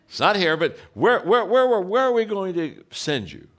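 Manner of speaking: rising, pressing where where where; mock urgent plea; urgent repeated where. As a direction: push the question harder each time. Pleading where to send him.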